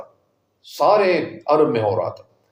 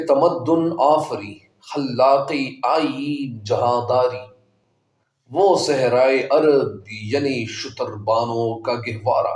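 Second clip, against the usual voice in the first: slow, measured poetry reading; verse recitation; slower than usual. Acted. Teacher reading a couplet to students before explaining it, slow recitation. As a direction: recite the couplet slowly, spacing out each phrase.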